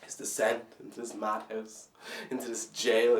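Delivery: soft, low, spent voice; subdued despair. Acted. Spent, despairing close of monologue.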